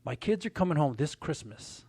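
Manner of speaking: quiet, slow and heavy with feeling; softly retold choked-up words. Client thanking Lee, lightly choked up and slow. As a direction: let the words catch, held low. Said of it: "he's all choked up".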